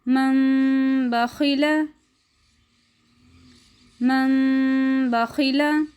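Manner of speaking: मन बखिला with न merged into nasal म before ब, drawn out; slow recitation. Shown as a demonstration. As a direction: recite मन बखिला as ममबखिला slowly. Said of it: "आप भी मेरे साथ दोहराइए". (धीमी तजवीद क़िराअत)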